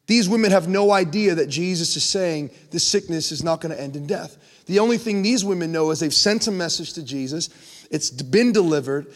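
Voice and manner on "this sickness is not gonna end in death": quietly, as if to himself; a private, hushed promise. Retold or imitated. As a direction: murmur it under his breath. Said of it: "he said it to himself".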